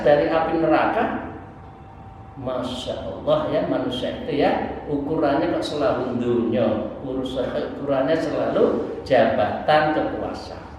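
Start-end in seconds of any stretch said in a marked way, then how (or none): none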